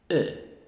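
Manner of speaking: E as short English "ih", as in sit; short I sound. Shown as a demonstration. Teacher showing short I, a lax "ih". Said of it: "La I".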